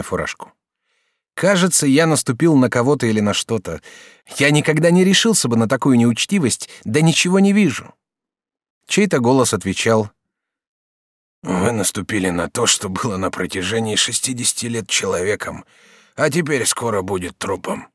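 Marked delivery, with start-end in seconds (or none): 1.3-7.9 higher, brighter-pitched polite youth; lightly raised student voice; young student Jacques. Acted. 11.4-17.9 a hint of a dying prisoner; dying old prisoner.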